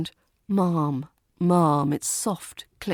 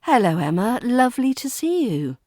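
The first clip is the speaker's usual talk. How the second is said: friendly greeting; 5 semitones higher, 4 dB louder than usual. Shown as a demonstration. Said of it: "smooth linking in informal greetings".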